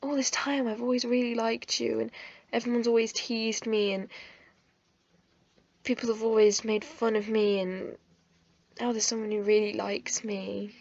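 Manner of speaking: soft, understated tearful recollection; retold tearful confession. Girl tells the boy she always liked him, softly tearful. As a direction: quietly retell confessing through tears. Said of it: "I kinda broke down into tears".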